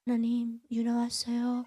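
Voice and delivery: hushed, level-toned little prayer; timid call to God. Retold or imitated. Hiding at the back of the dark chapel, timid hushed call. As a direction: softly announce yourself, afraid to be heard. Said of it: "무서워서 그렇게 찾았거든요".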